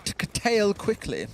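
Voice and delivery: slowed-down, teasing posh British echo; mock posh accent. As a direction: mimic a posh accent, drawing it out. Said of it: "I can mock that accent".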